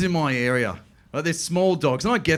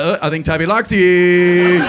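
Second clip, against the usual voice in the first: louder, slower doting owner; proud owner; 2 semitones higher, 9 dB louder, slower than usual. Retold or imitated. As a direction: beam about your dog. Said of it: "the owner's like".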